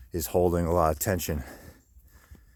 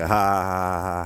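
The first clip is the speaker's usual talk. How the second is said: put-on mocking ha-ha-ha; mocking machine laugh; 3 dB louder than usual. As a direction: laugh at him like a taunting machine. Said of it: "sitting there laughing at me".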